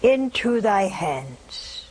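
hushed, weighty last prayer; reverent quotation. Retold or imitated. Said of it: "he said this in a loud voice".

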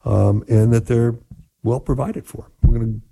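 quick, upbeat announcer read; radio host break. Acted. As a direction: rattle off the show plug and number. Host's station break read.

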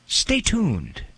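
radio host sign-off. Retold or imitated. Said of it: "rarely do I say".

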